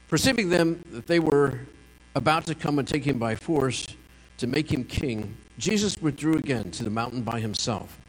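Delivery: measured, formal Bible reading; scripture reading. Acted. Pastor reading John six aloud to the congregation, measured. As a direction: read the passage steadily to the congregation.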